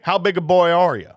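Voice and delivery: lightly voiced Southern tough guy; Roy D. Mercer. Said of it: "like, a Southern man".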